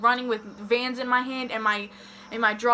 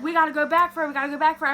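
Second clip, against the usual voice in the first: higher, urgent retold pleading; urgent plea; 4 semitones higher, 3 dB louder, much faster than usual. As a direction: re-enact begging friends to turn round.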